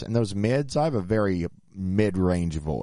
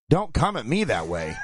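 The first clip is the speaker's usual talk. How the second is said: mock angry yell, pitched up; retold confrontational outburst, higher voice; angry retort; 6 semitones higher than usual. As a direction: imitate a man snapping in a quarrel. Sound man snaps in retold quarrel.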